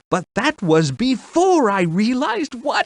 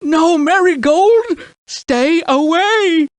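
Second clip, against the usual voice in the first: urgent warning; 4 semitones higher, 4 dB louder than usual. Acted. King warns daughter off.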